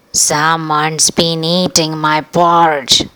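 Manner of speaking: slow, mildly growling papa bear; a hint of a gruff papa bear; Papa Bear finds his porridge eaten; growled. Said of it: "growled the Papa Bear".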